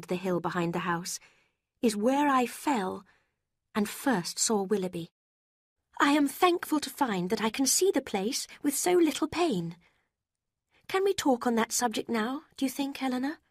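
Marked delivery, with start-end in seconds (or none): 1.8-13.4 put-on lightly raised young woman voice; earnest young woman. A narrator's reading. Marianne voiced in story.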